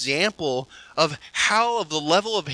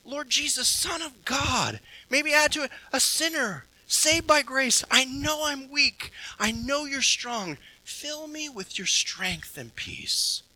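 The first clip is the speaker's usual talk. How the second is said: prayer repeated; 7 semitones higher than usual. Shown as a demonstration. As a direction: pray it again gently, adding a phrase. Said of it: "reflect on it again".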